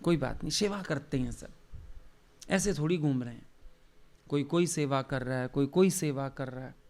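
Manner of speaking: soft, gentle and affectionate; a hint of a loving master soothing a worried disciple; lovingly. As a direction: reassure kindly, like a guru to a disciple. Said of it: "बड़े प्यार से बोलते हैं".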